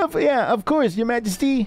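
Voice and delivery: soldier voice. Acted. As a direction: pitch up, eager and dutiful. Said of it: "I forgot the voice I did".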